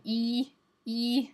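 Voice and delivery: E said with lips stretched wide; spread E. Shown as a demonstration. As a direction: smile wide and say E. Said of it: "the one I was saying is that left one".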